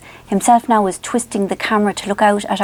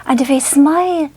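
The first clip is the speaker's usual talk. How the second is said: higher, lightly imitated Scottish accent; Roger Elliott; 5 semitones higher than usual. Vlogger starts quoting the tape, lightly put-on Scottish accent. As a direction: begin a mock Scottish hypnotist line. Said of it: "another lovely thing he goes".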